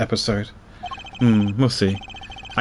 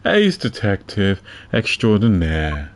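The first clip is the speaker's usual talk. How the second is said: detective character voice; slower than usual. Acted. Reads detective character lines.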